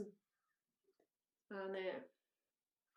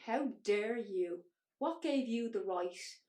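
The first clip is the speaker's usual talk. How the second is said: slow, louder mock outrage from the auntie; imitating an angry shout; 5 dB louder, slower than usual. Auntie shouting at her down the phone, slow mock outrage. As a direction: retell the auntie's outburst, dragged out and cutting. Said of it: "my auntie's shouting at me".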